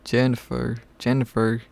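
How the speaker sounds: trying out a southern accent; lightly attempted southern twang. Shown as a demonstration. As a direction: test the name in a tentative southern accent. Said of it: "How would you even pronounce Jennifer in southern?".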